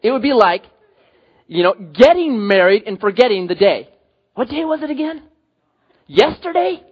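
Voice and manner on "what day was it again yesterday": clueless husband. Pretend. Husband who forgot wedding day.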